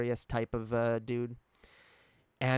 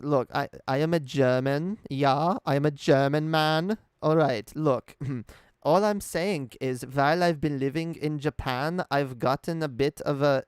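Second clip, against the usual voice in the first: put-on German accent; 2 semitones higher, 4 dB louder than usual. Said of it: "Do an accent of a German man".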